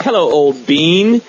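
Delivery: slow, lightly mocked British accent; a character from a song. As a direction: put on a hint of jolly British English. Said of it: "he had a British accent".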